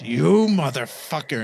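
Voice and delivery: tag. Acted. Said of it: "And Donald goes".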